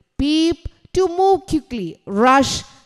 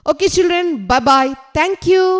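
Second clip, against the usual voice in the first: cheery goodbye; 5 semitones higher, 6 dB louder than usual. Real, not acted. Teacher says bye to children.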